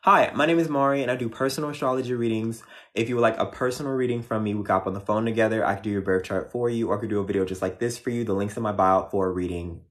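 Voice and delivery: quick, bright ad pitch; ad read. Acted. Plugging her readings to viewers as a quick ad read. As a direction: rattle off the plug like a commercial. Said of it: "it's time to do Cancer commercial break".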